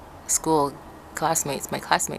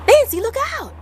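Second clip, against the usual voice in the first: high, loud shouted warning; teacher shouting; 6 dB louder than usual. Retold or imitated. Teacher calling down the slope, shouting a warning.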